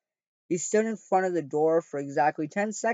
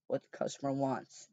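softly; 6 dB quieter than usual. Acted. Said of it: "James said softly".

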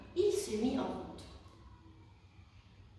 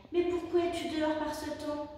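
curious otter; 5 semitones higher than usual. A narrator's reading. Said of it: "répondit Léa".

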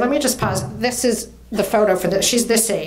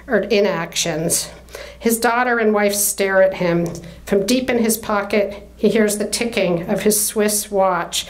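measured literary read-aloud; story narration. A narrator's reading. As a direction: read the novel passage with clear, deliberate phrasing. Reads novel narration aloud.

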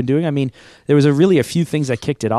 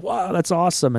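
higher-pitched retold wow; impressed reaction; 8 semitones higher than usual. Former client seeing the newsletter, impressed. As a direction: imitate a client's pleased surprise.

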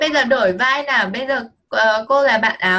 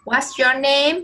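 role play line; 2 semitones higher, slower than usual. Pretend. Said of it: "cô làm bạn áo xanh nhá".

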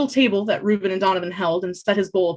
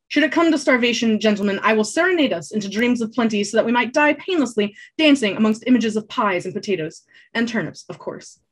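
theatrical, raised bard voice; grandiose bard; 3 semitones higher than usual. Acted. Bard boasting to hungry travellers, theatrical. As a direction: declaim it like a showy minstrel. Bard's grand mock serenade offer.

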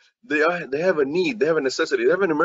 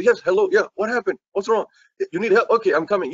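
higher, hurried reply to a friend in need; urgent phone answer; 5 semitones higher than usual. Pretend. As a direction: pick up fast and ready to help. Friend answering a late-night call.

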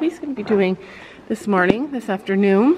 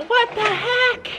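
laughing; 10 semitones higher, much slower than usual. Real, not acted. Laughing at horse mishap.

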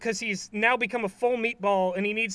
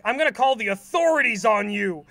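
louder, mock angry threat; imitating a fed-up yell; mad Squidward; 6 dB louder than usual. Squidward threatening SpongeBob over the snails, mock angry. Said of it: "Squidward gets really mad".

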